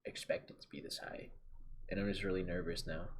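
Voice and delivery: hushed, mildly nervous retelling; quietly admitting nerves, lightly acted; nervous friend. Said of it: "he got nervous".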